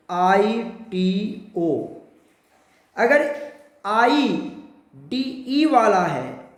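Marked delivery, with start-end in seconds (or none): 0.1-1.9 आईटीओ said slowly, ending on a long o; ending pronounced. Shown as a demonstration. Teacher showing students the new ending. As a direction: stretch आईटीओ and land on the o. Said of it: "कैसा करेंगे उसको".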